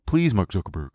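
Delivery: mildly acted polite plea; nice pleading. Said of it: "Did they just try asking nicely?".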